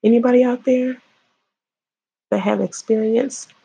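reach out to anyone hurt like you; earnest appeal. Real, not acted. Appeal to viewers who were assaulted.

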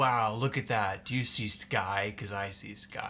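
drawn-out, slow awed wonder at art; gushing art admirer. Acted. Art viewers admiring a blue painting, mock awe. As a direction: marvel slowly at a painting. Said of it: "They're like".

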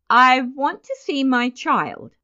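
high, loud, desperate demand; almost shriek it, on the edge of collapse; near shriek. A narrator's reading. Father demanding his child from the nurse, near shriek. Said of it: "Mister Button almost shrieked".

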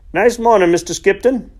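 high and loud, sung out cheerfully; cheery sung-out hello; cheerful greeting. A narrator's reading. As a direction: call a bright good morning across the field. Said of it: "he sang out cheerfully".

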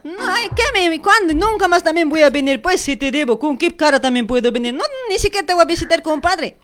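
high-pitched, huffy protest; indignant refusal. Acted. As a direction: refuse indignantly in a staged spat. Acted quarrel, swearing never to visit.

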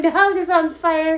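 a mild replay of the alarm; urgent. Retold or imitated. Retold bursting in.

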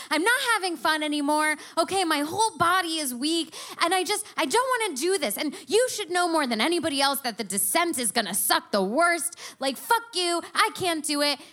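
high, rushed, pleading whine; desperate complaint. Retold or imitated. To her boyfriend halfway up the pyramid, a fast high whiny plea. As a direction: blurt it all out fast, begging to quit.

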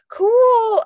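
high, loud, drawn-out awe; retold enthusiasm. Friend admiring spider web, retold enthusiasm. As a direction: imitate a friend thrilled by a spider.

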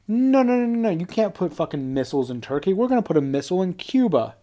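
high-pitched run of protest, then easing; hammed-up outrage at moderate volume; mock conniption. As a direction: imitate an indignant tantrum, starting high. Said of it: "Russia about had a fucking conniption".

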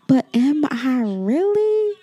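a real sob breaking through the question; holding back tears as the doubt hits. Real, not acted. Doubting his own worth aloud.

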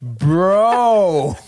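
long, loud "Bro" arching upward; hammed-up outraged Bro. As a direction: stretch "Bro" into a loud mock protest. Exaggerated answer to official question.

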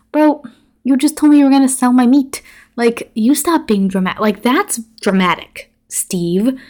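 outraged viewer talking back to Steve; exasperated retort. Pretend. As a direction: fire it back at him in disbelief.

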